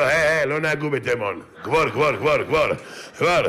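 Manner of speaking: lightly imitated Yemenite accent, insistent; a hint of Yemenite, correcting the chant; mock Yemenite protest. Dead Yemenite man corrects the gravedigger, light Yemenite accent. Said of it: "הנפטר אומר לו".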